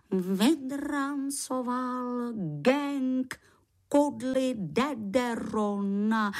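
slow, drawn-out, awestruck repetition; reverent awe. Acted. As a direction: savour each word with sacred awe. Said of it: "S posvátnou úctou opakoval slova". (s posvátnou úctou, pomalu)

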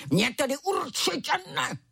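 a cub's pretend roar; little tiger lightly roaring back; mock roar. A narrator's reading. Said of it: "zařval malý tygr".

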